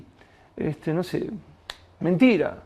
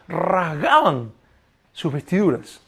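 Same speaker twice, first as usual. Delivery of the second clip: muy lento; 2 semitones lower, slower than usual. Real, not acted. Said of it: "énfasis lento al predicar".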